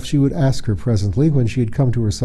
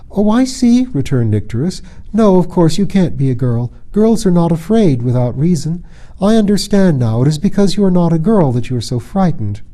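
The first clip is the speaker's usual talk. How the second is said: eager realisation; 6 semitones higher, 4 dB louder than usual. Acted. Nycteris understanding.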